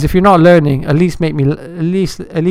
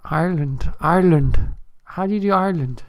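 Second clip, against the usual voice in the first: soft, tentative stab at Irish; attempted Irish accent; 6 dB quieter than usual. Shown as a demonstration. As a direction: try out an Irish accent quietly. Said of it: "I can't really do Irish, man. I'll try".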